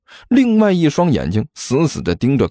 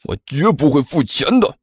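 low growl. Acted. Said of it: "低声咆哮了一句".

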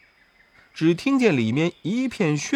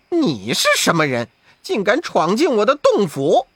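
quick, louder demand; barked challenge; 5 semitones higher, 3 dB louder than usual. Acted. Wukong challenging the intruder Sha Seng, barking. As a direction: bark it like a king guarding his cave. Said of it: "悟空竟喝道".

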